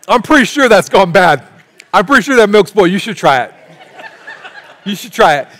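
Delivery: loud, high, giggling as you offer it; laughing tease. Retold or imitated. Passing bad milk to your sister, laughing. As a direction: trick your sister into tasting it. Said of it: "You're like".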